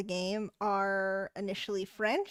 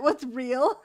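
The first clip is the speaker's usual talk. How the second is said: laughing; 4 semitones higher, 5 dB louder than usual. Real, not acted. Laughing at game line.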